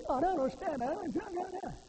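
high, drawn-out imitation of a grumbler; mock complaining. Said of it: "when you complain".

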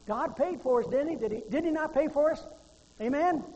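high, loud rhetorical questions; forceful preaching. Real, not acted. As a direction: push the congregation for an amen.

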